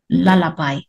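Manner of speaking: LULLABY said low and unstressed; low, soft syllables. Shown as a demonstration. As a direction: keep every syllable of LULLABY soft and even. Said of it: "all these are low syllables".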